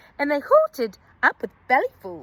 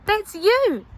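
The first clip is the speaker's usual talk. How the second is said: amused reply; 8 semitones higher, slower than usual. A narrator's reading. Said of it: "they laughed and said".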